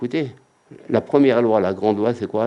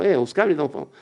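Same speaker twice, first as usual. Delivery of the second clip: calming voice; 5 semitones higher than usual. Acted. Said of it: "Comme on a l'habitude de dire".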